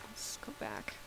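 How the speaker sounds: hushed, breathy whisper; sneaky whisper retreat. Real, not acted. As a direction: whisper it so nothing hears you. Sneaking away from danger.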